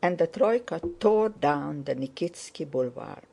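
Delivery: ordinary delivery, nothing marked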